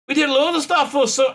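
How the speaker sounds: a hint of a Liverpool singer's voice that slides into her own; failed impression. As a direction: try his voice and miss. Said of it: "I can't do his voice".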